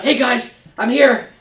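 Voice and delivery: high, bright eager greeting; eager late arrival. Acted. Amasa rushing in to the troops, eager. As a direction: hurry in eager to join.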